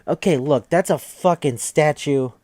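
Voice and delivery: loud, emphatic lecture; insistent. Real, not acted. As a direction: jab every point home. Insisting on history.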